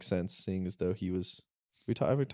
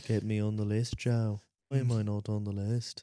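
put-on Liverpool accent rock star voice. Doing a famous singer's voice for the other speaker: famous singer's voice. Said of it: "my singer voice".

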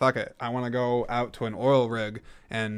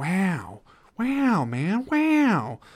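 very slow drawl, each word stretched and swooping; 8 semitones higher than usual. Doing an impression after mentioning people who attempt it: Owen Wilson impression. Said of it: "I like doing the Owen Wilson impression".

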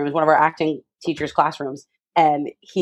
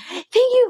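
put-on very high, crying, tearful voice. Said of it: "crying and screaming by myself boarding a plane".

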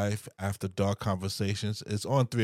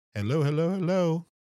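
unexpectedly squeaky, unusually high-pitched voice; 9 semitones higher, 4 dB louder than usual. Opening a marriage podcast with a greeting, in an unusually high voice. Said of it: "why did my voice go so high?".

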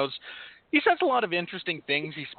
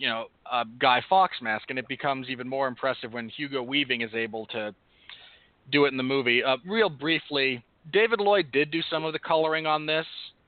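normal talking voice

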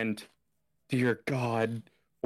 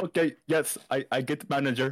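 mock Indian-accented voice; 3 semitones higher than usual. Retelling a woman's reply to a request for the manager, in an Indian accent. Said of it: "Were you trying to make an Indian accent?".

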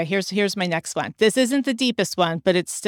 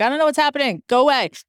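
mock, high, dismissive brush-off; 6 semitones higher, 3 dB louder than usual. Retelling brushing off a stranger outside the subway: imitating shooing someone off. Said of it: "I did the whole shoo off thing".

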